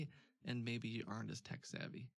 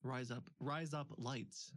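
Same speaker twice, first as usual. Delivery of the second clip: "Rise up, rise up lights" drawn out slowly in the accent; slow accent demo; slower than usual. Shown as a demonstration. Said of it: "is how you would say razor blades".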